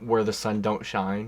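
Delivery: slow flat monotone. Retold or imitated. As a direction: say it with no expression at all. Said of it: "complete monotone voice saying".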